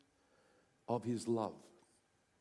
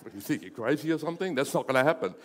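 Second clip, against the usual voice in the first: mock wife scolding; 2 semitones lower, 4 dB louder, much faster than usual. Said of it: "and your wife said".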